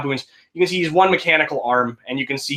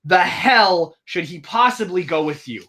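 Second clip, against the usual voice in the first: heated argument; 4 semitones higher, slower than usual. Acted. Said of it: "they're kind of arguing now".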